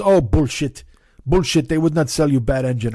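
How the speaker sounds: lightly imitated Swedish neighbor's accent; slight foreign accent, asking about the car; Oscar's accent. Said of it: "he talk like this".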